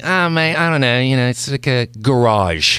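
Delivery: lightly imitated hesitant foreign coworker; Andrew. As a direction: imitate a colleague unsure of his American accent. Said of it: "Can you do an American accent?".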